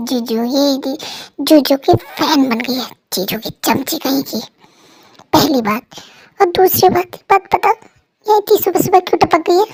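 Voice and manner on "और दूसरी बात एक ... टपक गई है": higher, louder, quick telling-off; scolding. Acted. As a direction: rattle off the scolding. Wife scolding early visitor.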